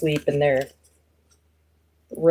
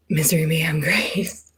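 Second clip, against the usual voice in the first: whispered name. Real, not acted. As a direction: barely breathe the name out as she reads it. Reading a viewer's name aloud.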